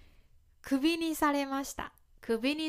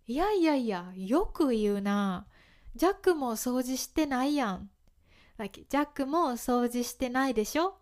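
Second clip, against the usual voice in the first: sarcastic comeback. Shown as a demonstration. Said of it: "みたいに使いますね".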